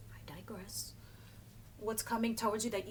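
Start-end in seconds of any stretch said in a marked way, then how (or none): 0.1-0.9 whispered aside. Real, not acted.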